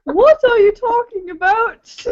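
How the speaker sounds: high, badly faked British accent. Shown as a demonstration. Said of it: "That was a horrible British accent".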